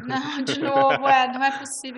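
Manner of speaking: loud, dismayed self-quote in disbelief; hammed-up wail of not again; mock despair. To herself as the famous girl walks in, dismayed.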